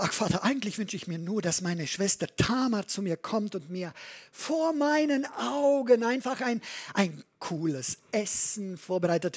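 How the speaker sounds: quengelnder Sohn, höher, zu Beginn schnell; übertrieben gespielter Sohn. Retold or imitated. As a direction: ein verwöhnter Kranker, der um sein Essen bettelt. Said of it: "ich habe es ja ein bisschen übertrieben". (übertrieben jammernder Amnon, leicht höher)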